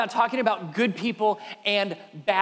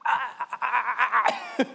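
mock stammering, laugh-like noise; imitated daughter's floundering noise; 3 semitones higher than usual. Imitating his daughter when asked what she needs, mock floundering. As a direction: stutter out a string of helpless sounds. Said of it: "she's doing one of these".

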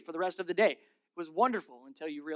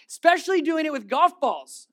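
excited aside; 8 semitones higher, 9 dB louder than usual. Real, not acted. Excited aside, loud high.

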